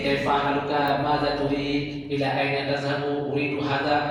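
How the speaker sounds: "Kaifa haluka" said in a lilting singsong; formal Arabic. Shown as a demonstration. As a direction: chant the fusha phrases like a lesson. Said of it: "mereka tuh ya T K W ya nggak ngerti".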